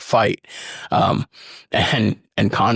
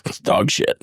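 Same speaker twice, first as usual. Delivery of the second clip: whispered deadpan joke; whispered fake putdown; joking whisper. Shown as a demonstration. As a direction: whisper it as a mock verdict. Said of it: "Oh, no".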